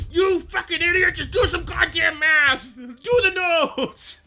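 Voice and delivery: screamed, very high and loud, spitting with rage; furious rant. Pretend. Imagined community manager screaming at players, furious. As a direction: explode at the idiots who can't do math. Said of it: "I would get so annoyed with people".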